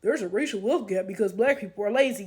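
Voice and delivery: low, soft, distant smug voice; mock the smug excuse quietly; mocking racist voice. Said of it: "Then they'll say".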